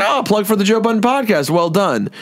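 high-pitched, pleased exclamation; retold excitement. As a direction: re-enact being delighted by a plug. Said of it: "I was kinda excited".

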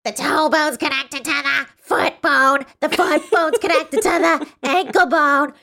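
high, slow, pinched-nose chant; harsh distorted voice. A narrator's reading. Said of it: "Then in a harsh, distorted voice".

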